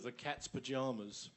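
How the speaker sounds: said in an English accent; English pronunciation of pajamas, "pa-JAH-mas". Real, not acted. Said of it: "said with an English accent".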